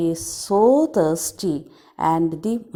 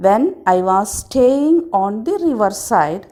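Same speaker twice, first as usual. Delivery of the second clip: loud swallow telling; 4 dB louder than usual. Acted. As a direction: stress the rude boys loudly as the swallow. Swallow story reread.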